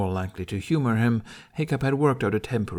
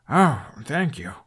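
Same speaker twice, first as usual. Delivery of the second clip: feigned relief; 4 semitones higher, 3 dB louder, slower than usual. Pretend. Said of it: "Relief washed over Hiccup's features".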